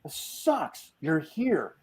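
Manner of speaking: high-pitched exasperated complaint; retold griping. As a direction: whine about it in mock misery. Retelling his grievance at a spoiled night.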